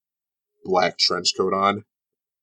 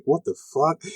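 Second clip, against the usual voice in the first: raised-pitch mock disbelief; mock shocked spectator; 7 semitones higher than usual. Game master voices a wrestling fan reacting, mock shocked. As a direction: play a startled onlooker in the crowd. Voicing a shocked crowd member.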